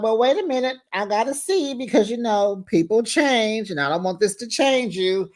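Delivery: mock hesitant objection. Acting out his hesitant objection.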